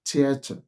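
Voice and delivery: theater beginning with a T, "tiata"; theater said "tee-ah-tah"; Nigerian pronunciation. Shown as a demonstration. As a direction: swap the TH of theater for T. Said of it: "That's how we pronounce it generally".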